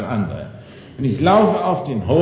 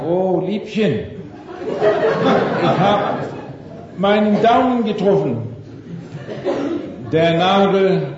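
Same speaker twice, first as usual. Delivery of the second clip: sweet laughing complaint; 3 semitones higher than usual. Retold or imitated. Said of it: "die erste Verhaltensweise ist dies".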